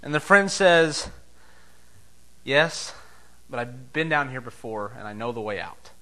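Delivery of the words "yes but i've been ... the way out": calm reassurance. Acted.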